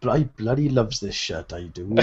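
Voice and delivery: light Welsh lilt; a hint of a Welsh accent. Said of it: "do it in a Welsh accent, Rich".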